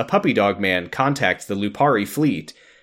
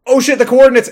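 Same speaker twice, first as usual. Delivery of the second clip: higher, louder sudden panic; panicked; 12 semitones higher, 8 dB louder, faster than usual. Acted. Panicked recording cut off.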